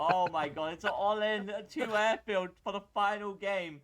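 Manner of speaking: high, loud, stunned shriek; shrieking jackpot winner. Real, not acted. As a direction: shriek it like you just hit the jackpot. Shocked by an all-in build.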